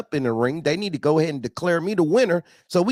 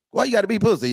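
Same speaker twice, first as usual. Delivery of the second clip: quick laughing retort, higher; mock reply; 6 semitones higher, much faster than usual. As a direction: fire it back fast with a laugh. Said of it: "That's me".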